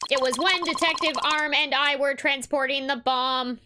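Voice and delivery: stiff robot voice. Acted. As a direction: read it flatly like a robot. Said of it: "It is tough to talk like a robot".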